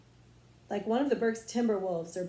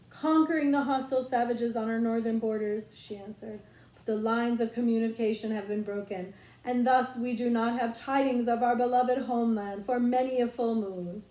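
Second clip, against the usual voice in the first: grand, formal royal speech; a queen proclaiming news of the realm; queen talk; 4 dB louder than usual. Acted. Queen reporting to her king in grand formal tones. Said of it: "How was that for queen talk?".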